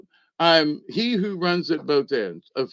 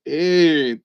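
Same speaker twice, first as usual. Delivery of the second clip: calling out; 6 dB louder than usual. Retold or imitated. Man calls out in the camp.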